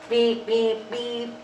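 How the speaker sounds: imitated horn beeps; playful horn beep; truck horn beep. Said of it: "said Little Blue Truck".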